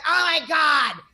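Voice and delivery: mock yell of outrage; retold yelling. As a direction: imitate a daughter yelling at her mother. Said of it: "She's yelling at me".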